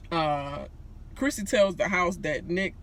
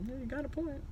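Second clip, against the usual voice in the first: imitating Cliff; 8 semitones higher, 11 dB quieter than usual. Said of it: "Cliff was looking like".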